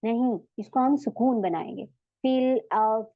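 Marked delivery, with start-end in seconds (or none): 2.2-3.1 फिल अर्द with the last sound stilled; tajweed stop on फिल अर्द; correct stop. Shown as a demonstration. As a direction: recite फिल अर्द, ending on a silent द. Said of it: "इस तरीके से".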